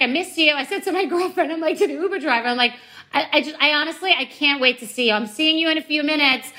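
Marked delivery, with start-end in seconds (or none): 0.0-0.5 high, cooing mock affection; mock affectionate. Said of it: "in the notes, I'm just like". 3.1-6.5 a gushing, eager high coax; enticing sweet talk. Retold or imitated. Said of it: "I'm trying to, like, entice the guy".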